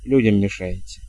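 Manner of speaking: low, stern scolding; barked rebuke. A narrator's reading. Matriarch scolds witches for disturbing the actors, barking. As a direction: scold them curtly in a low voice. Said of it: "рявкнула матушка".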